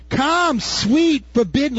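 high, luring come-hither call; mock seductive call; enticing call. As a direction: beckon like the temptress. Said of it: "what you're looking at".

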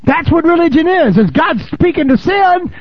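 high, slow, forceful preacher voice; preacher hammering the congregation on sin; full-force preaching. Acted. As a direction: drive the point home from the pulpit.

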